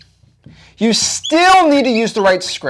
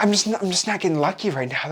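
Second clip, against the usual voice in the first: mock complaint; 9 dB quieter, faster than usual. Mimics people complaining about luck.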